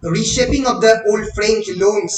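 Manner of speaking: each word spelled out very slowly for note-taking; slow, deliberate classroom dictation. Acted. Dictating notes to students.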